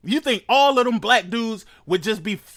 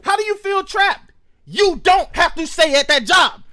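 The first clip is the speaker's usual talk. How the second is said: exasperated shout; 7 semitones higher, 5 dB louder than usual. Real, not acted. Shouting at clip.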